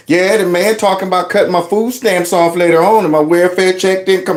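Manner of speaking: high-pitched mom airing her business; imitated oversharing mother. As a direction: mimic mama chatting away in line. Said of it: "would just let all her business out".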